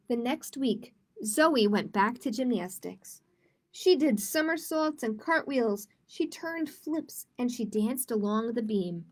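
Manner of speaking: put-on lively storybook reading for kids; reading to children. A narrator's reading. Teacher reading a picture book to kids, animated storytelling. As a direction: read it like story time with children.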